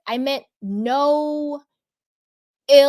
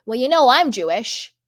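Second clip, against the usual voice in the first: louder mock whiny excuses; sarcastic imitation of a self-excusing friend; mocking Dorit; 4 dB louder than usual. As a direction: parody her defensive rambling. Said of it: "she has to be like".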